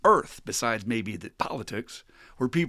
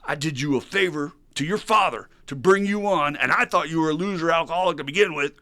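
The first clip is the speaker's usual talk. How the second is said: angry dressing-down, building louder and higher; boss screaming; 5 semitones higher, 6 dB louder than usual. Acted. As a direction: chew him out, rising to a yell. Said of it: "And he's screaming at the guy".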